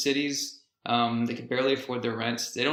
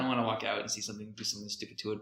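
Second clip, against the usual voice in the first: near-whispered begging, softer; pleading under the breath to be left alone; hushed pleading; 6 dB quieter, faster than usual. Retold or imitated. Owner begging strangers to spare his parked car, hushed plea.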